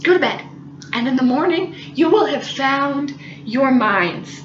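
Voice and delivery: slow low calm; lightly voiced patient roommate. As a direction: tuck the kids in. Roommate patiently sending them off.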